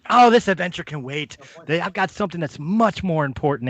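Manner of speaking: put-on an old wizard greeting the party at the door; Corbin, eager wizard. Corbin dismisses their quest.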